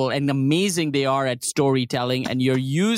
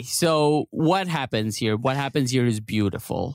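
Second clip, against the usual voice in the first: mock-dreamy, savoring each word; 6 semitones lower than usual. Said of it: "saying it in that tone of voice".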